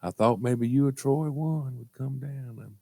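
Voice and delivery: slow, soft mother voice; mother on phone. Retold or imitated. Mother hoping someone would visit, subdued slow phone voice. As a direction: trail it out slowly and softly. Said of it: "What you doing, Mama?".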